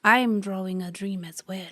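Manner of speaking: put-on broken-English old grandma; lightly voiced old grandmother; old abuela voice.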